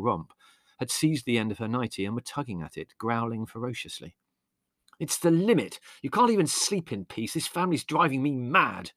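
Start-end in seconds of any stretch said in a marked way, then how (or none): 5.0-8.9 Larry bellowing at the family. A narrator's reading. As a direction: bellow it, fed up. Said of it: "bellowed Larry".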